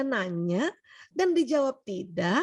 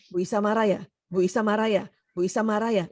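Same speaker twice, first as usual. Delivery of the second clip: same question rattled off three times in a row; all in one go; 4 semitones lower than usual. Retold or imitated. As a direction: imitate a husband asking in bulk, lower voice. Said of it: "nanya tiga kali diborong". (diborong sekaligus, menirukan suami)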